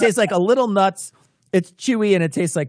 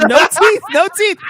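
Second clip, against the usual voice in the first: retold panicked protest; 13 semitones higher, 7 dB louder than usual. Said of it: "And he said".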